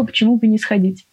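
ordinary talk, nothing marked

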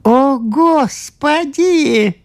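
high, slow, stretched gasp of wonder; exclaiming priest. A narrator's reading. Priest exclaims at the discovery, high and drawn out. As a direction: cry out in amazement. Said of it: "воскликнул священник".

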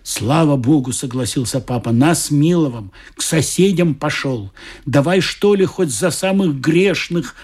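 storyteller voicing each figure; lightly voiced characters in a told story; story narration. A narrator's reading. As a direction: read it like a Christmas tale to adults. Reads a story aloud.

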